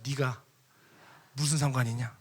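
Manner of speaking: restrained, even-voiced reproof; gentle rebuke. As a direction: quote the Lord's mild rebuke. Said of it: "주님 온유한 말씀으로".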